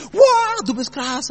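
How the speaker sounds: retold crowd yelling wow; admiring shout. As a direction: cheer him on like an impressed fan. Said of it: "wenn die Leute geschrien haben".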